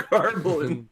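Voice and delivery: Garbling said the Boston way, gahblin for gobbling. Retold or imitated. Cohost echoing Rob's word, mock Boston accent. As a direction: echo his Garbling with a light Boston twist. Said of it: "he actually said the word garbling".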